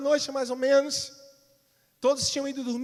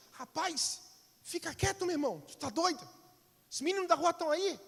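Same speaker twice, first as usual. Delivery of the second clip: higher, hushed scolding of a little brother; embarrassed big brother; 5 semitones higher than usual. Acted. Older brother hushing his little brother on the street, embarrassed. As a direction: shush him so the street kids won't hear. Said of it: "O Júlio olhou e falou assim".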